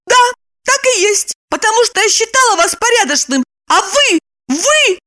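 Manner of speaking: high, rushing indignant woman; mild mock outrage. A narrator's reading. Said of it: "закричала она".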